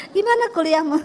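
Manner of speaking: a changed, kinder father asking lightly; friendly question. Retold or imitated. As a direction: ask it gently this time. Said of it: "senyum dia". (bertanya dengan ramah)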